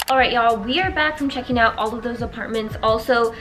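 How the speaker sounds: numb mouth after dentist; talking through a numb mouth. Real, not acted. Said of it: "I'm still so numb".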